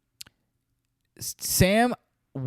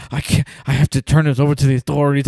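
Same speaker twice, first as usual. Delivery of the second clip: fast, louder mock panic; imitating frantic; 5 dB louder, faster than usual. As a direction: rattle it off like a panicking doctor. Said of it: "he starts getting all frantic".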